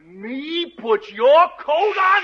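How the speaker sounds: can't believe what he's asked to do; incredulous echo; surprised. Acted. Startled at the request.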